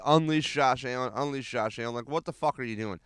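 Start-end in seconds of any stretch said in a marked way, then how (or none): 1.1-1.9 softer echo. Retold or imitated. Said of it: "I said".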